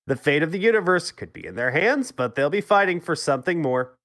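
stiff robotic reading voice. Acted. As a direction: read it like a dry robot. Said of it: "I like when you use your robot voice".

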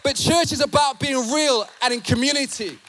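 emphatic pulpit delivery; forceful preaching. Real, not acted. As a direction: drive the point home to the congregation.

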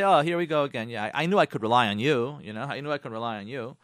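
sarcastic wife throwing it back at her husband. Acted. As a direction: sneer it as fake thanks. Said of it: "don't be sarcastic to him either and say".

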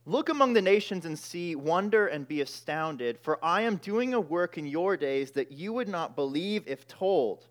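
solemn reading of God's reply; scripture reading. Acted. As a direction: read God's words with weight. Reads God's answer from verse five.

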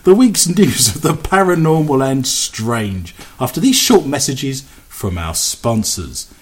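smooth station announcement read; radio announcer. Acted. Reads radio show announcements.

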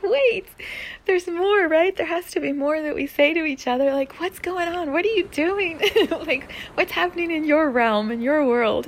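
high, loud, urgent demands; frustrated pleading. Retold or imitated. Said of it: "I was so mad".

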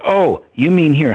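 high, loud, slow teasing guru voice; a hint of a mischievous holy man, amused; playful guru. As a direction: draw it out like a teasing old guru. Guru teasing about the money.

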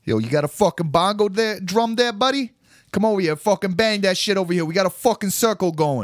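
high, loud hammed-up hippie; yelling hippie inviting to drum circle; mock drum circle hippie. Hippie calling a passerby to the circle, hammed up.

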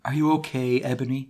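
understated gentle read; gentle concern. Acted. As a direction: check on her gently. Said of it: "Draco asked me gently".

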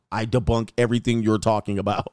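lightly voiced smug commentator; Boyce Watkins. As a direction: imitate a pundit brushing him off. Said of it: "Boyce Watkins like".

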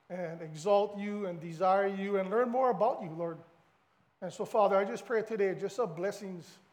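steady, earnest prayer voice. Acted. Pastor praying over his church, earnest prayer. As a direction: lead the room in prayer.

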